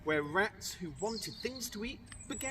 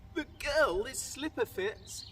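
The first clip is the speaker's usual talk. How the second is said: cried out; 5 semitones higher than usual. Acted. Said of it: "he cried".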